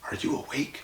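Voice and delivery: breathless, unvoiced little question; whispered. A narrator's reading. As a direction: whisper it so nobody wakes up. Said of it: "Then Abby whispered".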